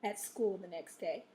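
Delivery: expressive storybook reading with weighted phrases; interesting read-aloud. Shown as a demonstration. Teacher modeling reading for students, expressive storytelling. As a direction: read it to keep young listeners interested. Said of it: "notice how I made that interesting".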